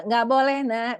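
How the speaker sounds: put-on mother raising her voice at a pestering child. Shown as a demonstration. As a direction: refuse again, now losing patience. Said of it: "Kita udah mulai agak tinggi juga".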